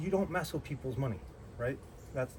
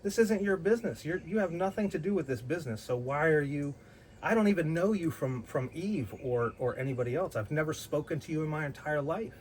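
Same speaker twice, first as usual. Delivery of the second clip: indignant retort; 3 semitones higher than usual. Retold or imitated.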